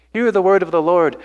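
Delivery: a sermon's ringing refrain; emphatic proclamation. Shown as a demonstration. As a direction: declare it with conviction. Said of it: "God wanted Ezekiel to really emphasize".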